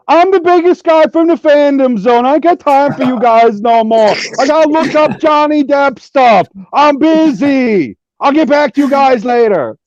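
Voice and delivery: lightly lampoon a friend as a big shot; imitating Zodbot. Teasing a panel friend by imitating his voice, mock brash. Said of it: "I do not sound like that".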